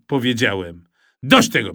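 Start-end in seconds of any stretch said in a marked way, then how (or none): 1.2-1.7 enough. Acted. Father losing patience.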